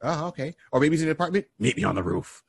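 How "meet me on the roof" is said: dark whisper behind you. Retold or imitated. Shadowy voice calls to Azrael.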